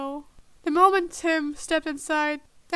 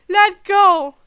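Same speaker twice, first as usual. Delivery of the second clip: loud, higher furious shout; 4 semitones higher, 15 dB louder than usual. A narrator's reading. Tim shouting at the agents, furious. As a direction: tear through the chaos. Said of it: "A voice tore through the chaos".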